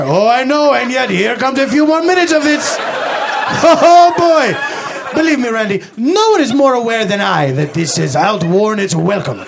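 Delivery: lightly hammed Dracula-style voice; vampire-like accent. The speaker answers Randy's jab, mild vampire accent. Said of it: "borderline offensive accent".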